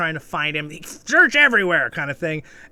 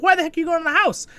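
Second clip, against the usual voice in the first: high, fast mock disbelief from the friend; incredulous friend; 13 semitones higher, 4 dB louder, faster than usual. Friend questioning the kid going inside, high and fast. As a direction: squeak it out in quick disbelief. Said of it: "And his friend's like".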